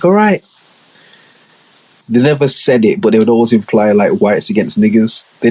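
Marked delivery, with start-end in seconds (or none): 0.0-0.4 high mock banter. Imitating white boys' banter.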